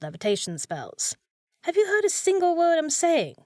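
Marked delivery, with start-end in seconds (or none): 1.7-3.3 high, loud scolding of a stubborn patient; fed-up shout at the wizard; exasperated outburst. Acted. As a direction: snap at him for not listening. Maid exasperated at wizard using spells.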